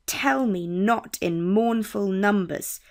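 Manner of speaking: "Tell me not in mournful numbers" read slowly, strong then weak; slow STRONG-weak beat on "TELL me NOT in MOURNful NUMbers"; trochaic stress. Shown as a demonstration. Teacher showing the opposite of an iambic foot, trochaic stress on "Tell", "not", "mournful", "numbers". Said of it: "the first syllable is stressed".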